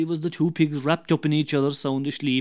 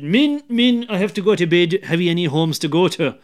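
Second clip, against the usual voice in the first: calling out closing time; 2 semitones higher, 5 dB louder than usual. Acted. Publican calling loudly to his drinkers to go home. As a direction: call it out loud to clear the house.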